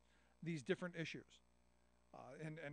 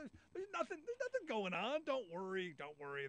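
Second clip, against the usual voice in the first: lightly put-on Southern US accent, higher and louder; mock southern drawl; 3 semitones higher, 3 dB louder than usual. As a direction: tease them in a hammed-up Southern drawl. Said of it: "your southern accent drawl you was doing".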